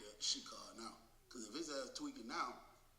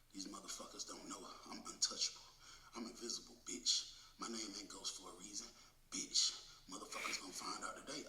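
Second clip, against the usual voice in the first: low, half-voiced muttering to himself; imitated growly muttering; 5 semitones lower than usual. Inmate Ghost talking to himself in his cell, imitated low growly mutter. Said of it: "this bitch growling and shit".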